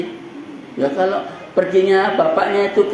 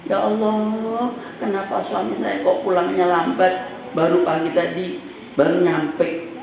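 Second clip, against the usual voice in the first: acted wife's prayer; 4 dB quieter than usual. Wife praying over her late husband, softly voiced. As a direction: pray quietly, worried about the husband.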